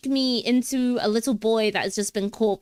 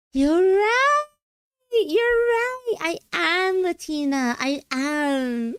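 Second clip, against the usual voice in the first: high, loud delighted exclamation, easing as it goes; excited revelation; 9 semitones higher, 4 dB louder, slower than usual. Pretend. Streamer realizing she is Latina after all, excited revelation. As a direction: gasp it out as a thrilled mock epiphany.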